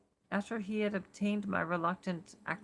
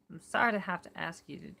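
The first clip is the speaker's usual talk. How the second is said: New York accent attempt; faster than usual. Shown as a demonstration. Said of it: "I said New York".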